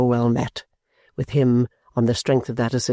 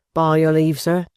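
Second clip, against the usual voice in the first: sharp; 3 semitones higher than usual. A narrator's reading. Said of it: "with a sharp".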